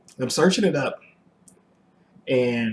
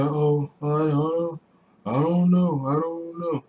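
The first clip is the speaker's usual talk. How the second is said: mock evasive wife; 5 semitones higher, slower than usual. Wife dodging question about gift.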